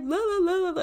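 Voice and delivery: high mocking singsong la la. Annoying friends mocked in a high singsong. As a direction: taunt with a high, loud singsong. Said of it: "they're just like".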